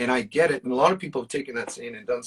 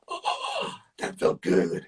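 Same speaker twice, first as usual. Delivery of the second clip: high sighed "oh", then pitched-up satisfaction; retold elated relief; 8 semitones higher, much slower than usual. Man recalling the phone call's payoff, elated relief. Acting out relief after the call.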